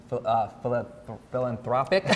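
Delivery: numb tongue after dental work; numb from the dentist. Real, not acted. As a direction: talk through a half-numb mouth. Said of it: "I had my teeth pulled".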